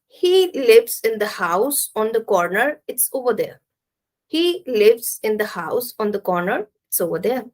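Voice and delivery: measured statement dropping on "over there"; falling intonation. Shown as a demonstration. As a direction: let "over there" fall away. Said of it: "we will use falling intonation".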